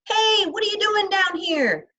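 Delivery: high, loud challenge down the hall; stern hall monitor shout. A narrator's reading. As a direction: call out sharply like a monitor.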